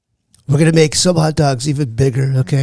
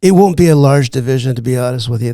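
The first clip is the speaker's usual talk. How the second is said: impersonated politician holding forth; Donald Trump. Acted. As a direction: play the president on a comedy show.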